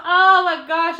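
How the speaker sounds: loud, high mock panic; retold freak-out. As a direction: exclaim it as if flipping out. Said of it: "I was flipping out inside that room".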